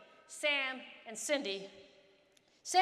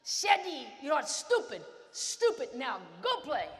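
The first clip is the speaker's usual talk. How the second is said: coach yelling; 5 dB louder, slower than usual. Retold or imitated. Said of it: "my coach yells at me".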